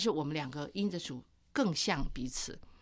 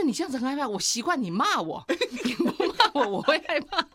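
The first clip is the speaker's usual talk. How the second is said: mock scared husband; 6 semitones higher, 4 dB louder than usual. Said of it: "他说".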